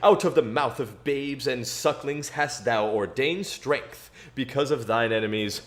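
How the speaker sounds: solemn, measured King James reading; scripture reading. Acted. Streamer reads Psalm eight to chat between races, solemn scripture voice. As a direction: read it like a preacher at the pulpit.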